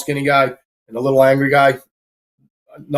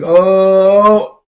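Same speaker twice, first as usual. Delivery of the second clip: sharp startled oh, pitched up; mock startled oh; 6 semitones higher, 6 dB louder than usual. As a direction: bouncer voicing the moment a punch comes, startled. Bouncer voicing a punch coming.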